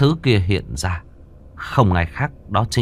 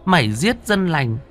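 dark accusation climbing high; eerie ghost pronouncing judgment, pitch rising; gloomy, sinister voice; 7 semitones higher than usual. A narrator's reading. Ghost wife condemning her cruel husband, gloomy and menacing. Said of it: "nói bằng giọng âm u".

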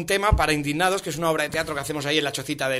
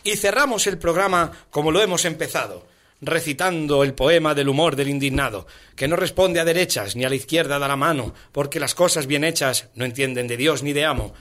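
rhythmic recital of satirical verse; poem recitation; 2 semitones lower than usual. Acted. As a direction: recite rhymed verse line by line.

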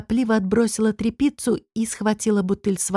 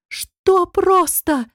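squeaky, drawn-out, high and loud; a frightened high squeak; 10 semitones higher, 4 dB louder, much slower than usual. A narrator's reading. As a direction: squeak it in slow alarm. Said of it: "пропищала я".

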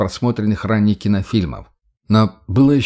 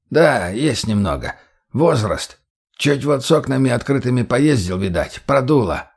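put-on very old man. Old man answers, feeling ill.

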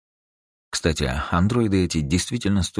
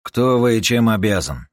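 curt question; 6 semitones higher, 5 dB louder than usual. Acted. Юджин отвечает корпоратке.

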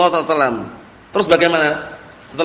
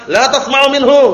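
higher-pitched, mildly raised heckling cry; mock yelling; 5 semitones higher than usual. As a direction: imitate someone yelling, without full volume. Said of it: "teriak-teriak warahu".

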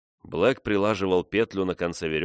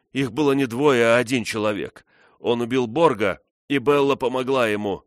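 feverish fervor; 4 semitones higher, 5 dB louder than usual. A narrator's reading. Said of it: "с лихорадочным жаром".

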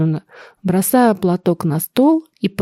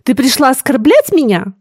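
mild cry; 5 semitones higher, 3 dB louder than usual. Acted. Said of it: "вскрикнула княгиня".

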